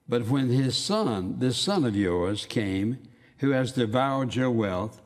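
each word of "this son of yours" leaned on slowly; slow, heavy stress on "son of yours"; pronounced words. Shown as a demonstration. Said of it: "he makes those words very, very pronounced".

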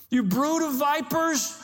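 drawn-out preacher's rebuke; forceful rebuke. Retold or imitated. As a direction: thunder it out like the prophet. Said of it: "Remember when the disciples would take".

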